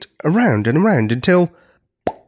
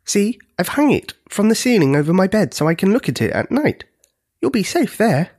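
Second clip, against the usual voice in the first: put-on young giant; 7 semitones higher than usual. A narrator's reading. Smallest giant, a child, chatting.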